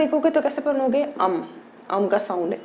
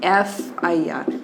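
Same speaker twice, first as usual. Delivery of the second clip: एफ़ आई आर whispered slowly, letter by letter; 5 semitones lower, much slower than usual. Shown as a demonstration. Teacher whispers how to write it in Hindi. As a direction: breathe एफ़ आई आर out in a slow whisper. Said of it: "Hindi में लिखोगे तो कैसे".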